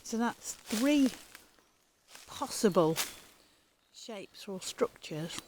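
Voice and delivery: talking with sunglasses in mouth; mouth full. Real, not acted. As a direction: speak round sunglasses held in teeth. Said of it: "Sorry, I'm talking funny".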